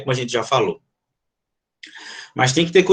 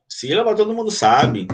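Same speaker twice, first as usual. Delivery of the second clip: dismissive quote; 4 semitones higher than usual. Retold or imitated. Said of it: "diz assim".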